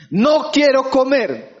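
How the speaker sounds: slow, pouting no quiero comer; sulky wife. Retold or imitated. A wife sulking to her husband over dinner, pouting. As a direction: sulk to mean the opposite. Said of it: "el tono dice lo otro".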